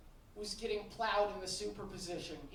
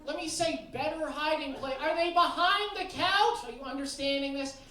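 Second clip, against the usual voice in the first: mock searching; 4 semitones higher, 6 dB louder than usual. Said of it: "the thing where you're like".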